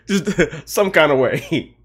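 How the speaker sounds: slow, laughing through the words; drawn out between laughs. Real, not acted. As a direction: giggle it out. Laughs at own request.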